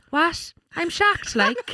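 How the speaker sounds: Limerick accent impression. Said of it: "And Declan goes".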